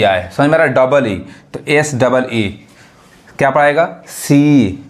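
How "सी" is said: "सी" with the ee held long; teacher's drawn-out "सी"; long vowel. Shown as a demonstration. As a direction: stretch the vowel of "सी". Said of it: "long sound".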